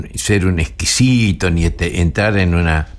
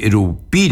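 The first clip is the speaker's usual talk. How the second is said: erupí with the stress on the final pí; stress on rupí. Shown as a demonstration. Teacher showing stress on the final syllable. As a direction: hit the last syllable of erupí. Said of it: "le pone fuerte el acento".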